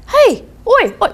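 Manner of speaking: high, loud call to a friend. Retold or imitated. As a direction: shout across to a mate. Calling his friend over.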